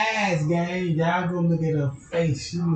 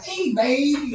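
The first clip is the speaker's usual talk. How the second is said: mock creepy call; 8 semitones higher than usual. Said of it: "I had to count down, like".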